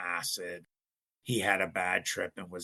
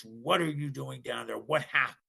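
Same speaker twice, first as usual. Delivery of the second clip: retold dad's yell, slightly higher; mild mock yell; 4 semitones higher than usual. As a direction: scold the kids without really shouting. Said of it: "again, he yells at us".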